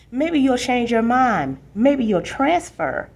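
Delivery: put-on hopeful kid nudging his sister to stay; little brother pleading. Danny the little brother begging his sister, lightly voiced high and slow.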